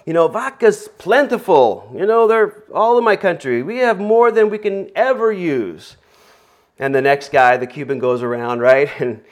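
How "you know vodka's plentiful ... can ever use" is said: put-on Russian accent. Russian on the train boasts about vodka, in a hammy Russian accent. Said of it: "in my Russian accent here".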